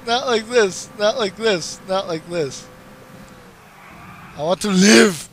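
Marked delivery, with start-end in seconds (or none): 0.0-2.7 mock dramatic despair. Dramatic mock death plea.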